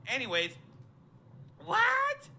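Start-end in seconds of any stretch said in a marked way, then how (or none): 1.7-2.3 high disbelieving yelp; shocked what. Real, not acted. Fan recalling a shocking play, stunned high yelp. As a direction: fling it up in total disbelief.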